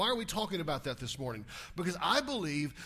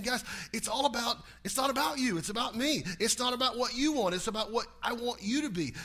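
a higher, emphatic voice of God; voicing God; 6 semitones higher than usual. Preacher voicing God telling his people. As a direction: speak as God laying down the law. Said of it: "he's saying".

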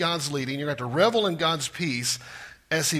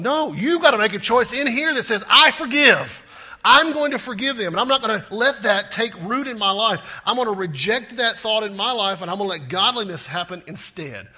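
loud, higher, driving resolve; forceful declaration; 5 semitones higher, 6 dB louder than usual. Acted. Preacher urging his congregation to forgive, loud and fervent. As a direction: declare it like a vow you mean.

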